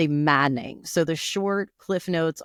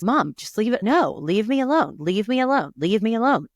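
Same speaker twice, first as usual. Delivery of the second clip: exasperated son; 5 semitones higher, 3 dB louder than usual. Retold or imitated. Retold son fending off mother.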